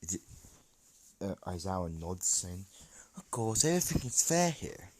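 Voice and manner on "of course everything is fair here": breathy whisper, no voice. Acted. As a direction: lean in and whisper it. Aizawa answers Deku.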